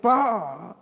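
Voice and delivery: high called-out Pak from afar; child calling out. Retold or imitated. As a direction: call him back, high and pleading. Son cries out after father.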